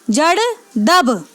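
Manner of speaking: slow mnemonic. Shown as a demonstration. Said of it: "तीन चार बार बोल के देखें".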